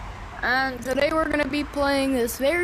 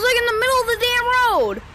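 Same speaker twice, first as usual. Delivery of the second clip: angry rant; 9 semitones higher, faster than usual. Real, not acted. Ranting about driver.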